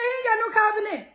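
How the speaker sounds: fast, high, half-cried outcry; preacher acting out David's disbelief, fast and high; mock outrage.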